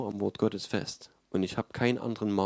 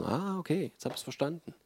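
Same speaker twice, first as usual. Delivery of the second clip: leise gespieltes Verstehen; imitiertes Aha-Erlebnis; 3 semitones higher, 7 dB quieter than usual. Retold or imitated. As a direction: spiel leicht den Zuhörer, dem etwas dämmert, erst etwas höher, dann leiser. Imitiert die verstehenden Zuhörer. (leicht nachgeahmtes Aha-Erlebnis)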